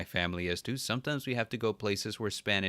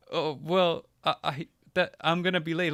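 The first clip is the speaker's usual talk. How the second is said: flustered nerdy traveler; 8 semitones higher, 3 dB louder than usual. Retold or imitated. Nerdy traveler pleads with staff.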